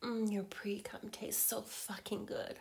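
intimate teasing whisper. Acted.

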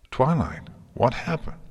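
high-pitched, urgent concern; alarmed. A narrator's reading. Horrified friend to miserable Twilight, alarmed.

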